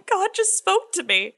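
high, slow, half-sobbed words; mock crying. Camper tells the counselor through mock tears, high and slow. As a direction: replay the teary thirteen-year-old, a bit hammed-up. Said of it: "I start hysterical crying".

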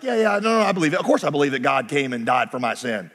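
imitating a breezy, dismissive churchgoer; glib believer. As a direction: rattle it off in a low, rapid run. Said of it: "who are like".

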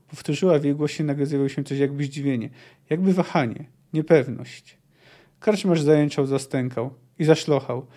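measured, even reading of a dark tale; calm audiobook narration; story narration. A narrator's reading. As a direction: read it like a storyteller at the fireside. Reads a Witcher fight scene.

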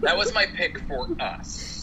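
slow, through laughter; laughing. Real, not acted. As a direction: laugh while admitting it. Admitting vote, laughing.

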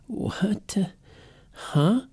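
high, puzzled what and huh; confused listener. Retold or imitated. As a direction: sound baffled, lost. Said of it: "Or you're going".

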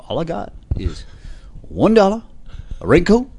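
lightly voiced Southern preacher; a hint of a fiery minister; preacher impression. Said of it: "I'm suddenly doing this African-American minister".

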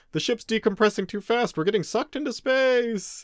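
high, urgent cliffhanger voice; dramatic comic narration. Retold or imitated. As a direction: read it like a comic panel. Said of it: "ends with, like".

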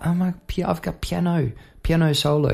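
high, mocking voice of a pushy guest; mock singer-guest request. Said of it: "It's like".

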